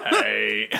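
low deep hey. Pretend. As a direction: drop the voice down low. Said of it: "I can't replicate that sound".

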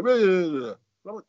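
mumbling nonsense to dodge a question, mocked; mock mumble. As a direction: parody a manager waffling someone off. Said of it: "he'd just mumble".

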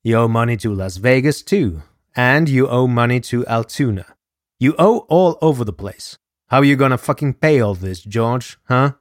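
fast, loud mob boss threat; angry yelling. Acted. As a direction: lean in and shout the debt at him. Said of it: "DeMeo yelled".

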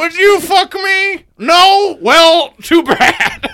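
high, loud creepy killer voice; creepy villain voice. Acted. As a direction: screech it like a movie psycho. Buffalo Bill impression, shouted.

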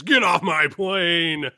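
slow laughing movie shout; Harrison Ford shout. Retold or imitated. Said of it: "the big pop-off line in that movie is".

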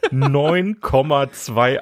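Neun Komma zwei laughed out slowly; laughing. Real, not acted. Repeats rating through laughter.

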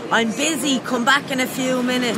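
mock staff brush-off. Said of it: "roared at".

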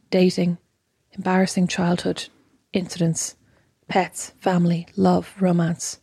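measured, serene host voice; zen voice. Shown as a demonstration. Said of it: "I'm trying to be very zen now".

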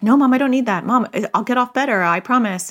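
high, quick promising; pleading kid voice; eager protest. Retold or imitated.

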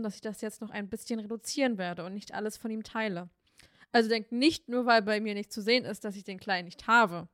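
catching in the throat; something stuck in her throat; frog in throat. Real, not acted. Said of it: "sie hat irgendwas im Hals".

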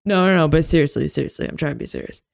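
rushed mock-drunk insistence; wasted bar guy. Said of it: "they're wasted and they're just like".

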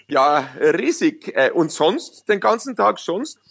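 slow, drawn-out mock enthusiasm; lightly voiced sketch figure; Polt sketch voice. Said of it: "dieses Gerhard Polt-Stück".

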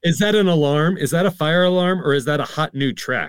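high-pitched, worried questioning; mock alarm. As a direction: fret as if the music were a fire alarm. Acting out alarm at loud music.

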